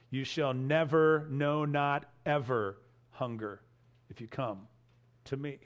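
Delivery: "never" held, "no, not ever" pressed, then fading soft into "if you come to me"; emphatic "never", trailing off quietly; stress on never. Shown as a demonstration. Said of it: "The nevers are strong here".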